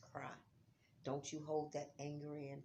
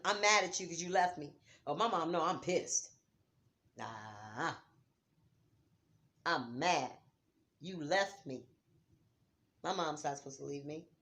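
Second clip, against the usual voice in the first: loud, hurt anger; angry at the dead; 6 dB louder than usual. Acted. Daughter scolding her dead mother, loud and hurt. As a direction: tell her off for leaving you. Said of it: "It's okay to tell them".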